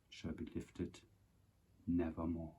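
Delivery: hushed whisper fading to nothing; whispered ending. Acted. Poem's final line to viewers, whispered and fading. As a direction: let the last line die away in a whisper.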